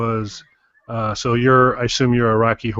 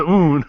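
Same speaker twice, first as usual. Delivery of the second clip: gag; 5 semitones higher, 4 dB louder than usual. Retold or imitated. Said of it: "I was familiar with".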